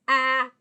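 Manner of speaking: "ah" as the short A in ran; short A sound. Shown as a demonstration. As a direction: isolate "ah", the short-A vowel. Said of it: "Vowel sound".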